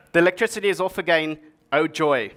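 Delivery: fast, mock-cheerful sarcasm; sarcastic "oh joy" to close. Shown as a demonstration. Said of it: "detect some sarcasm".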